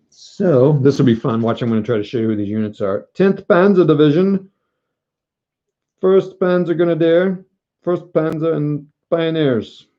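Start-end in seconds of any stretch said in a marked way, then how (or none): 3.1-9.9 announcer voice. Pretend. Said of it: "Why am I talking like this?".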